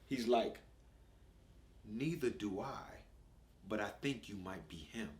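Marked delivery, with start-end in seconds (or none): 1.8-5.1 little posh voice. Retold or imitated. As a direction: say it softly and carefully like a polite child. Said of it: "listen to this".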